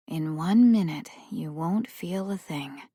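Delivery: soft, hushed reassurance. Acted. Nurse soothing boy as sedative works, hushed voice. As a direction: hush him gently toward sleep. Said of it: "her voice quieter now".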